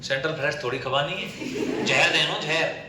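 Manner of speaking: laughing while saying जहर देनो; scoffing laugh on जहर. Acted. Mocking laugh over poison.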